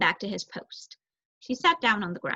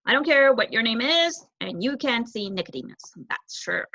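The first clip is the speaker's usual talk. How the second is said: annoyed guard; 4 dB louder than usual. Acted.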